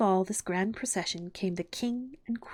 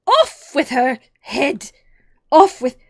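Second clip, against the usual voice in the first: furious, very loud royal scream; 5 semitones higher, 14 dB louder, slower than usual. A narrator's reading. Queen ordering Alice's execution, screamed. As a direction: scream the order, slow on each word.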